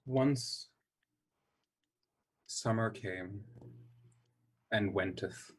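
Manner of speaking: long dramatic pauses between phrases; solemn mock poetry recital; Shakespearean. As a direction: declaim each phrase portentously.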